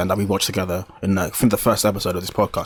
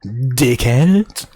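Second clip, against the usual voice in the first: joking whispered jab; whispered insult. Real, not acted. Gamer teases friend, whispered mock insult. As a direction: slip the insult in under your breath. Teasing insult muttered aside.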